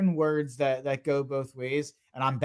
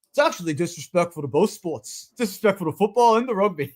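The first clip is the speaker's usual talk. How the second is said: a lightly put-on Australian accent, rising higher at the end; Mailata's Australian accent; 4 semitones higher, 3 dB louder than usual. Quoting the lineman's rant to stream chat, mock Australian accent. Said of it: "Cameron says he loves that accent".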